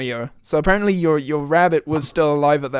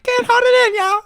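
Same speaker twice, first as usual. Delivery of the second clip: put-on high squeaky girl voice; girl impression. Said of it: "watched that video".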